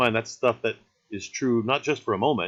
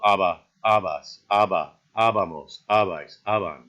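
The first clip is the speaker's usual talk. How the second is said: aba, abas, abamos, each punched on the opening A and falling; AH-ba, AH-bas, AH-ba-mos, opening syllable stressed; stress on first letter; 2 semitones lower, 3 dB louder than usual. Shown as a demonstration. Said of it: "get the pronunciation stress".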